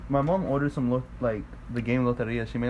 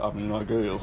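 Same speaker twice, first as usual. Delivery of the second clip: deep Southern voice; 3 semitones lower than usual. Retold or imitated. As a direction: put on her low Southern twang. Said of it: "she has a deep Southern voice".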